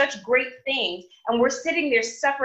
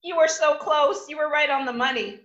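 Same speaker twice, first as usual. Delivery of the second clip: a hint of a disappointed loving father; God gently scolding a doubter; lightly voiced God; 2 semitones higher than usual. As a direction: chide gently, you were so close. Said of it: "he's like".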